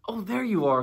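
high, loud greeting from above; calling down. A narrator's reading. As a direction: call down on spotting a friend. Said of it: "called down Winnie the Pooh".

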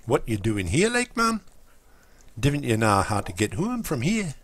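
a friendly Newcastle voice, a bit overdone; imitating a Geordie mate; Geordie accent. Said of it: "He talks a bit like that".

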